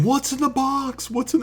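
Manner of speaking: high, mock frantic asking; lightly voiced desperate detective; a hint of panicked Brad Pitt; quoting the film. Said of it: "where he's, like, saying".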